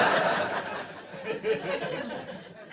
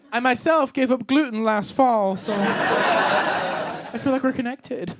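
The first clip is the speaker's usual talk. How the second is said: gushing audience member; slower than usual. Acted. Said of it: "they say stuff like".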